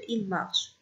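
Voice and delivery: "il marche" with the plural ending left silent; silent verb ending. Shown as a demonstration. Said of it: "ال O N T لا تنطق".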